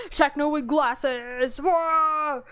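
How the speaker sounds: loud, high delighted reaction; excited squeal. Real, not acted. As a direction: gush over the drawing with glee. Excited reaction to fan art.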